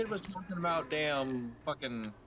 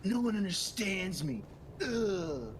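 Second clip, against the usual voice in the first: edgelord whine; slower than usual. Retold or imitated. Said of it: "It sounds like an edgelord now".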